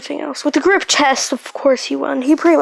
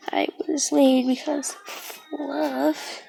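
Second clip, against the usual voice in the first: slow, voiceless whisper, embarrassed; shy slow whisper; 6 dB quieter, slower than usual. Retold or imitated. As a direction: confess it under your breath. Deku flustered answering classmates.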